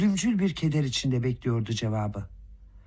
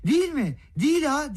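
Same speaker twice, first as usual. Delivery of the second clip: joyful shout; 12 semitones higher than usual. Acted. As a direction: shout it out, nearly giddy with joy. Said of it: "diye bağırdı". (neşeyle coşkun bağırış)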